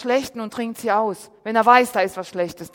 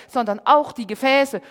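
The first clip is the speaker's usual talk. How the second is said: normal talking voice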